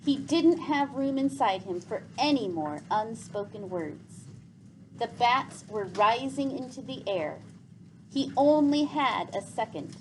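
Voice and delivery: calm read-aloud storytelling; story narration. Acted. Teacher reading a novel aloud to her class, steady narration. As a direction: read the chapter to the class, evenly paced.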